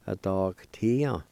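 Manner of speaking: "a dog tia" slowly, as one word; slow, connected teaching demo of "a dog tia"; careful pronunciation. Shown as a demonstration. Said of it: "I'll pronounce these words one more time".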